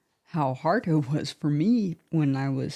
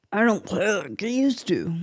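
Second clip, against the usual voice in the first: frustrated complaint, pushed higher; exasperated self-quote, pitched up; 4 semitones higher than usual. Acted. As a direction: voice the frustration with a raised, emphatic swing. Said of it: "frustrates me".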